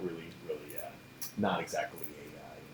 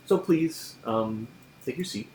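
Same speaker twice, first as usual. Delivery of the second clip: curt command; 3 semitones higher, 4 dB louder, slower than usual. Acted. Lecturer orders student to sit.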